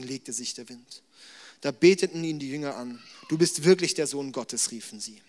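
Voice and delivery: measured Bible reading to the congregation; scripture reading. Acted. Preacher reads Matthew to the church, measured scripture reading. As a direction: read the passage out steadily.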